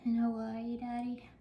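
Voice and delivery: slightly winded while talking; out of breath. Real, not acted. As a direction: talk while short of breath. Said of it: "Sorry, I'm out of breath".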